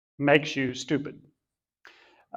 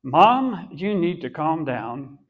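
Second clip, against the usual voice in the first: mock calm son. Son telling Mom to calm down, very calmly. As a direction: calmly lecture Mom, drawing out the words. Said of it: "he said very calmly".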